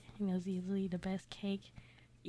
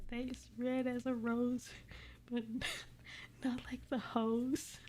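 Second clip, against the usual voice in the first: laughing through it; 3 semitones higher than usual. Real, not acted. Rereads the line while laughing.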